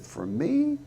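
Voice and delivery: put-on high, rising child's delighted question; surprised child. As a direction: squeak it up like a thrilled little girl.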